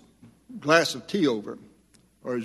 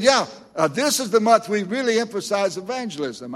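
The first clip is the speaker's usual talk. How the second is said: higher, earnest voice of the other pastor; imitated pastor; 6 semitones higher than usual. Preacher imitating the pastor explaining evangelism month. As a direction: lightly voice his confident answer.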